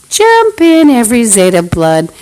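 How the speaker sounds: sudden high, loud shout; shouted call. Real, not acted. Calling every rival gang to join in, a sudden high shout. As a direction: yell it out to rally the gangs.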